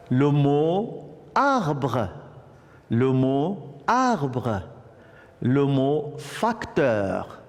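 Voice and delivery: slow, drawn-out teacher dictation. Shown as a demonstration. Teacher reads the exercise words to pupils, slow dictation. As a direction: stretch each target word out for learners.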